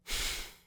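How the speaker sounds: long embarrassed exhale; flustered sigh. Acted. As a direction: breathe out, caught off guard. Flustered by a teasing compliment.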